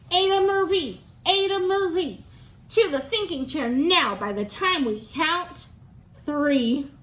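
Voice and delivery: lively storybook narration; reading to children. A narrator's reading. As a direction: read it like story time for a class. Teacher reads picture book aloud.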